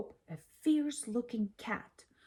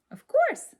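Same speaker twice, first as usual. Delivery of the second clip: much higher and louder squeal; proud exclaim; 9 dB louder than usual. A narrator's reading. Lily tells Chester in a loud high squeal. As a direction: burst out proudly. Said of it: "said Lily".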